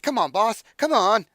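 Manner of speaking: high, loud pleading imp voice; begging imp. Acted. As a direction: nag the boss like a whiny little imp. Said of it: "He said".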